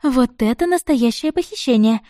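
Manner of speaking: восторженный возглас; delighted exclamation. Acted. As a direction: gasp it out in pure delight. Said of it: "с восторгом воскликнула Амелия".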